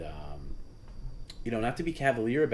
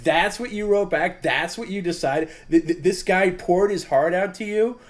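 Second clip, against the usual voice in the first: much higher, loud, shouting in disbelief; incredulous yelling; 11 semitones higher, 10 dB louder than usual. Retold or imitated. Host scolding Perry over his reply, shouting in disbelief. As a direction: yell at him in outraged disbelief. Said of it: "I was like".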